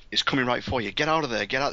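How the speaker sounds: mildly panicked imitation, pitch lifting; retold cry of alarm, only half acted; panicked Lambert. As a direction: imitate an urgent warning with a touch of panic. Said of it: "she's getting more and more panic".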